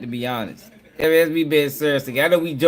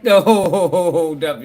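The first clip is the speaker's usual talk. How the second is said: laughing; 4 dB louder, much slower than usual. Real, not acted. Reacting to shocking clip.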